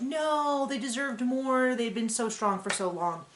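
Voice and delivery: high, drawn-out plaintive no, easing down; mild mock lament for a favorite; dismayed protest. Fan protesting a queen getting kicked out, mildly dismayed. Voicing viewers' dismay at elimination.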